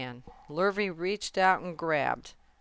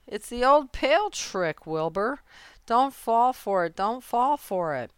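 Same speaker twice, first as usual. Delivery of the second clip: higher-pitched goose pleading; raised, insistent alarm; urgent warning; 7 semitones higher, 4 dB louder than usual. A narrator's reading. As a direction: warn a friend off a trick. Goose warns pig of trick.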